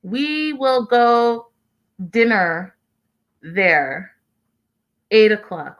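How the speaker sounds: slow, overly simplified broken English; lightly mocking Rebecca's broken English. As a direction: talk down slowly like to a foreigner. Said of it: "talking in broken English".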